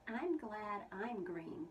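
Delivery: slow, smug frog voice; croaking frog. Acted. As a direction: puff up like a proud frog. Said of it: "croaked Frederick Frog".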